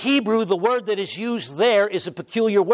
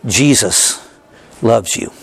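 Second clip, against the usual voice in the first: louder, deliberate emphasis; emphatic preaching; 5 semitones lower, 5 dB louder than usual. Real, not acted. Pastor tells the congregation, loud and emphatic. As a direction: drive home his love.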